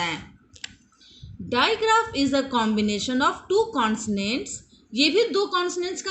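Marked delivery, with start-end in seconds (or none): 1.5-4.5 slow, word-by-word English definition; slow dictation. Shown as a demonstration. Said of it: "teacher dictates".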